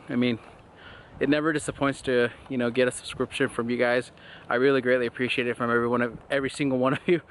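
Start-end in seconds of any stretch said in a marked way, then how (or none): 1.2-7.2 a little short of breath; talking while slightly winded; running out of air. Real, not acted. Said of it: "I'm running out of breath".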